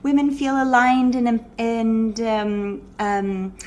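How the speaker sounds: hesitant, dreamy sales pitch; mock the vague healer who can't say it. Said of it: "what do you do?".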